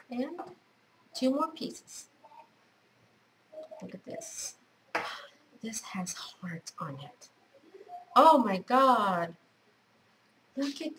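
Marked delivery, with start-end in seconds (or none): 3.8-7.3 soft, slow whisper of wonder; hushed whisper. Real, not acted. Showing viewers fabric with hearts, in a soft whisper. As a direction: breathe the words out in awe.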